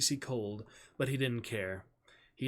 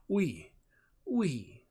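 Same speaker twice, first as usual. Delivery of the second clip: French oui; 6 semitones higher than usual. A narrator's reading. Boy repeats French word.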